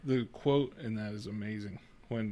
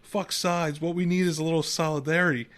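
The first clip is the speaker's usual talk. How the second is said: heated quote; 3 semitones higher, 4 dB louder than usual. Retold or imitated. Retelling Buscemi's heated great line.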